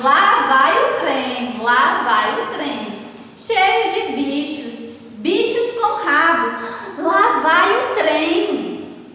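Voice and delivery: slow, emphatic read-aloud; measured, punchy textbook reading; expressive reading aloud. Shown as a demonstration. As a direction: give each exclamation a deliberate, drawn-out delivery. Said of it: "observaram aí na entonação que eu dei".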